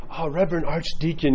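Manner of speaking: lightly voiced eager questioner; zealous convert. Eager convert addressing the archdeacon, lightly mock zealous. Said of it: "tons of zeal".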